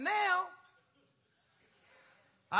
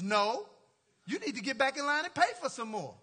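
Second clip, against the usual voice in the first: mock stern refusal; 2 semitones higher, 6 dB louder than usual. Barista refusing the coffee request.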